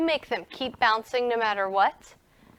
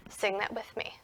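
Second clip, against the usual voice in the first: whisper; 4 semitones lower, 12 dB quieter than usual. Real, not acted.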